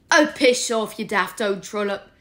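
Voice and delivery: imitating Remus. A narrator's reading. Sirius mimicking Remus to tell off the stern portrait. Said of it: "in a very good imitation of Remus".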